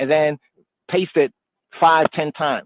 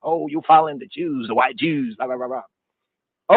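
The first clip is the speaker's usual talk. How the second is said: mocking quote; slower than usual. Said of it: "and say".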